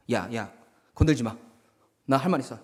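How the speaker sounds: low, halting face-saving protest; wounded-pride grumble. Acted. Bully among his friends, pride hurt, low protest. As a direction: warn off your friends in a low voice. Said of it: "마지막으로 이렇게 이야기하는 거죠".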